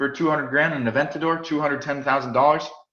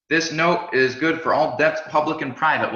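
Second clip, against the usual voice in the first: lightly raised, stately reading of the money's motto; mock official pronouncement; 2 semitones higher than usual. Teacher quoting the stamp on a dollar note, mock official. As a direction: intone it like a decree printed on a bill. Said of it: "somebody put a stamp on it and said".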